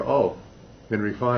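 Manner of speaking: a lightly voiced knowing oh; mock recognition. Audience recognizing the star, mild mock recognition. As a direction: say it like spotting the famous actor, not the role. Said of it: "you go".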